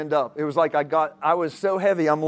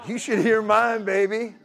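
boastful; 5 semitones higher than usual. Shown as a demonstration. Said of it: "say that with me".

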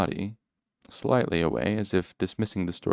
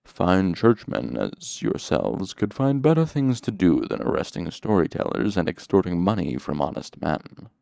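thick honey voice. Acted. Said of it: "voice rolled out like thick honey".

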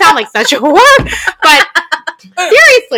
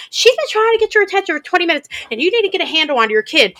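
mock scolding old lady; 5 semitones higher, 4 dB quieter, faster than usual. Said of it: "She's like".

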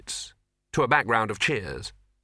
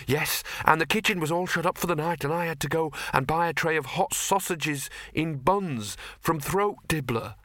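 whining servant; 4 semitones higher than usual. Acted. Servant voiced in story.

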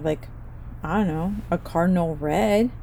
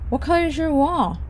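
lightly voiced guest, pitched much higher; 8 semitones higher than usual. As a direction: put on a prim guest's voice asking politely. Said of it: "they'll ask me".

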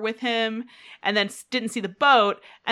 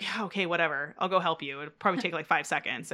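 imitated grudging consent; 2 semitones lower, 3 dB quieter than usual. Host voices Janice relenting to Ted, understated grudging consent. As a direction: give in with a mild put-on reluctance. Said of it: "finally relented and was just like".

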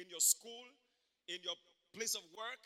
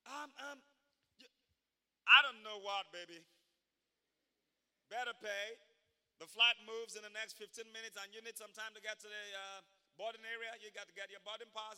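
imitating African American accent; 5 dB louder than usual. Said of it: "I tried to speak in her accent".

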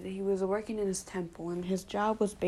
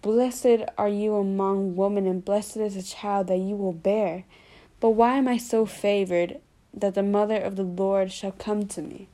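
formal scripture quote; 4 dB louder than usual. Retold or imitated. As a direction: read it like scripture, measured and full. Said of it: "And she said".

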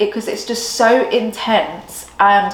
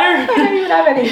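laughing while talking, higher pitch; 8 semitones higher, faster than usual. Real, not acted. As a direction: giggle through the words. Laughing through excitement.

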